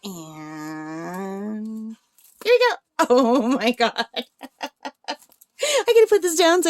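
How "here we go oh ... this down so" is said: high, loud delighted squeal; excited. Real, not acted. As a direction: gush over it with delight. Squeals at the cute painting.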